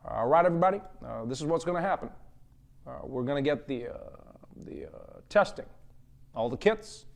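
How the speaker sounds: calm the nation like a president at a podium; lightly voiced Barack Obama reassuring everyone; Obama impression. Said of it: "he'd just come out and be like".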